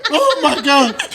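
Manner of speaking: high, slow, laughing Oh my God; starstruck screaming. Retold or imitated. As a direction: squeal like a starstruck fan. People around freaking out.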